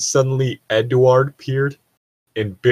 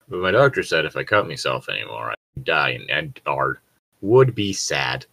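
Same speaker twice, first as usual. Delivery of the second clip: deadpan; 9 semitones lower than usual. Acted. Deadpan reading melodramatic fanfic.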